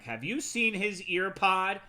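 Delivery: high, slow, pointed question; accusing wife. Retold or imitated. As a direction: demand it like an accusation. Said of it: "she immediately accosts them".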